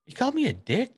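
high, puzzled question; confused boss. Retold or imitated. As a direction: mishear the name as an insult. Boss mishearing a name.

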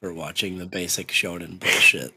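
deadpan mock fan; understated, even-toned sarcasm; monotone sarcasm. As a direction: parody the hypocrite without a wink. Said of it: "our voices are very monotone".

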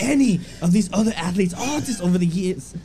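bad mock-Irish post reading; amateur Irish accent, slipping as it goes; attempted Irish accent. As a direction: read it as a fake Irish McGregor. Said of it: "Read it in his accent".

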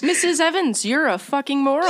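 lightly voiced gruff jeweller, giggling; blunt dad insulting customer. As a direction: bark the insult while cracking up.

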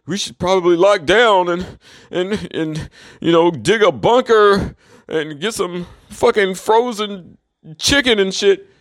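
slow, drawn-out mock of panicky relatives; a lightly voiced scared relative, dragged out; mocking his family. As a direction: lampoon them slowly, like they're clueless. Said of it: "These motherfuckers are like".

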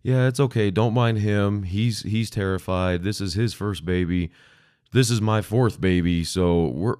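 calm mother. Retold or imitated. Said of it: "totally cool, totally calm".

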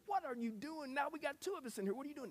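incredulous. Retold or imitated. Rescuer asks the man who jumped in.

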